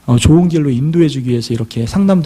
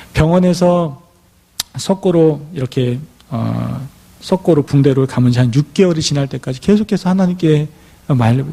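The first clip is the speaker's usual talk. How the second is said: ordinary delivery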